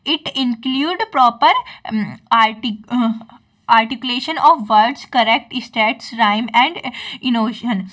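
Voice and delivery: slow, careful reading aloud of a textbook line; slow dictation reading. Acted. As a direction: dictate it slowly, word by word, for notes. Reads English definition to class. (धीमे-धीमे notes लिखवाने वाली आवाज़)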